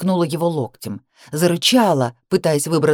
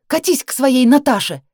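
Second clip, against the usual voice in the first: higher jealous shout; angry shout; 7 semitones higher, 4 dB louder than usual. Acted. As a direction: hurl it at him. She shouts at him.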